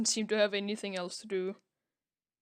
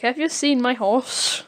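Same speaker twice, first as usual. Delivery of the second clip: calling out; 2 semitones higher, 8 dB louder than usual. Retold or imitated. Horse owner calling out.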